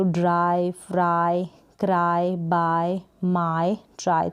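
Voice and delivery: ड्राई to ट्राई, each ending on a held eye sound. Shown as a demonstration. Teacher listing short words in Y, each with a clear eye ending. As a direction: read each word apart, ending on eye. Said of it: "आई का sound आएगा वाई के लिए".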